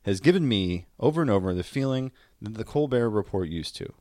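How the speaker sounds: measured, deliberate quote reading; reading a quote aloud. Shown as a demonstration. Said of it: "this is the line that I think is a great summation".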